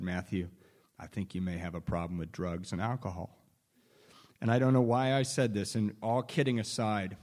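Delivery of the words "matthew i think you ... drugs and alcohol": soft, low retold words of a brother; gently imitating a calm, patient brother; quiet. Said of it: "he quietly said".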